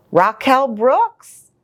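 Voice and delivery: lilting read-aloud voice; storybook narration; reading to children. A narrator's reading. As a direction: read the rhyming book to little kids. Reads picture book aloud.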